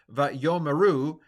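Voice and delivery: Vayomeru sounded out slowly, with the vocal schwa after yod pronounced; deliberate Vayomeru; slow careful pronunciation. Shown as a demonstration. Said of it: "that's a vocal schwa".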